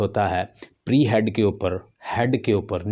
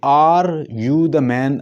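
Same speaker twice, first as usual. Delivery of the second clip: man stressed with the tune rising, higher; 5 semitones higher, 5 dB louder, much slower than usual. Shown as a demonstration. Teacher demonstrating rise on the last word. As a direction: push up on man. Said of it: "यहाँ पे rise हो रहा है".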